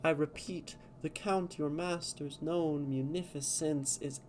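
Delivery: measured, dramatic poetry reading; careful verse recital; reading verse aloud. Shown as a demonstration. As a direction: read it like a stage poem, line by line. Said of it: "reading in verse is hard".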